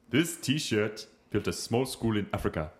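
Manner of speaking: slow, deliberate mock African prince accent; hammed-up African accent, holding back laughter; northern African prince accent. Guest playing an African prince for a laugh, slow mock accent. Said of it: "I'm like some prince from some northern African country".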